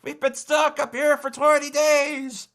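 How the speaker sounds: high-pitched woman calling from the wreck; weak voice. A narrator's reading. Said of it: "very weak".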